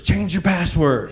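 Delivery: slow, gloating order; smug tell-off. Retold or imitated. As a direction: drag it out with a smirk. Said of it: "and I told the neighbors".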